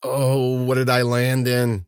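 moaning. A narrator's reading. Man who landed in something foul in a ditch, moaning. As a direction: moan it out in dismay. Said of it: "he moaned".

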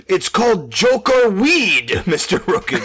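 slow, high, loud mock Asian accent; exaggerated Asian accent. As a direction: drag the words out in a broad Asian accent. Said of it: "we're all doing a grossly exaggerated Japanese accent".

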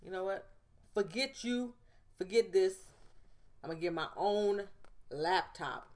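fed-up, mildly heated retelling; mock-defiant, punching out each short dismissal; retold anger. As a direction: act out being fed up, lightly heated. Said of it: "I got mad one day".

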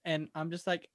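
ordinary delivery

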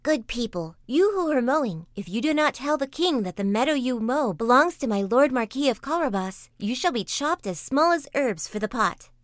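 lightly voiced cat laying down a threat; threatening cat. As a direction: warn them like a bossy cat.

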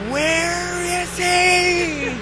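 high, very slow menacing captain voice; angry captain. Retold or imitated. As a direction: growl it out like a captain with an axe. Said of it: "and he says".

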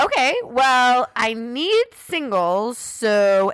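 slow, drawn-out pointed reply; pointed insistence. Retold or imitated. Customer to bank teller who refused singles, slow and insistent. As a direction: stretch the words at an unhelpful clerk.

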